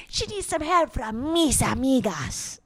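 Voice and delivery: cartoon skunk with a Hispanic accent. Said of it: "she's also Hispanic".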